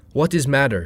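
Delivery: put-on dentist asking in a thick Eastern European accent; alarmed Russian dentist in Eastern European accent. A narrator's reading. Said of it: "she asked in a thick Eastern European accent".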